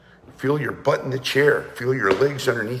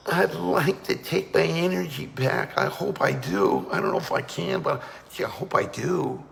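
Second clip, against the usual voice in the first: timid hesitant doubt; 4 semitones higher, 3 dB quieter than usual. Shown as a demonstration. Teacher mocks a doubtful timid intention. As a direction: sound like you doubt you can do it. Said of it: "I didn't go".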